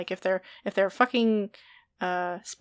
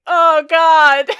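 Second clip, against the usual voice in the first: higher, louder frightened yelp through a laugh; startled cry; 8 semitones higher, 17 dB louder than usual. Retold or imitated. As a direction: players shrieking at the monster, half laughing. Players panic at the monster.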